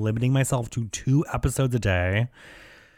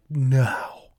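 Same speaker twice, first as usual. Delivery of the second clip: breathless whispered no; hearing he must floss daily, a whispered no; mock horrified whisper; 5 semitones higher, 4 dB louder than usual. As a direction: whisper it in shock. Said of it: "And I'm like".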